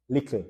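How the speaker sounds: "little" said as "likl"; Jamaican Creole "little". Shown as a demonstration. Teacher giving the word to spell, "little" as "likl". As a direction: put a k in place of the t in "little". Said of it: "it's pronounced, so spell it".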